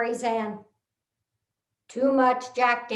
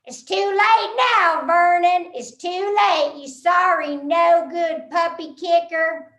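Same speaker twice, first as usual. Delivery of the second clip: louder, higher scolding with a Texas twang; lightly voiced sister telling him off; loud mock scolding; 3 semitones higher, 4 dB louder than usual. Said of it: "When his sister said".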